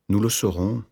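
patient, measured reply. A narrator's reading. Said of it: "sur le ton de la patience". (ton patient)

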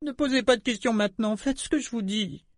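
high, strained, urgent command; urgent order. A narrator's reading. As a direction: gather your last strength and order her. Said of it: "rassembla toutes ses forces pour lui ordonner".

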